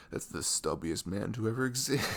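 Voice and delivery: laughing through the words; amused mock jab. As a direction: giggle while mocking him. Mocking a short guy, laughing.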